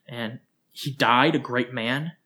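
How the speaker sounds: slow, scornful repeat of his phrase; bitter mocking repeat, rising; mocking echo. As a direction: throw "a great man" back at him in disbelief. Widow mocks his words.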